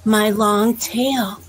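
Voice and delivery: a vain bear showing off his tail; proud bear voice. Acted. Bear bragging to Fox about his tail, slow and proud. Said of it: "And he says".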